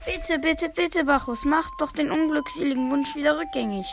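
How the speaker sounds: urgent pleading; begging for help. Acted. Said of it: "flehte um Hilfe".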